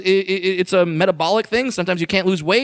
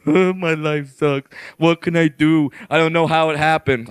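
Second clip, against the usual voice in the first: whiny complaining; 6 semitones lower than usual. Acted. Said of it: "the type of fat person that just complains".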